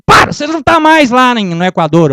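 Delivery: loud mock scolding; a touch of a scolding wife. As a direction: snap him out of it.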